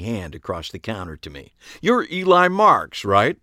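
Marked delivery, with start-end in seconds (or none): 1.8-3.4 high, slow and sing-song; coy girlish question. A narrator's reading. Ariana voiced.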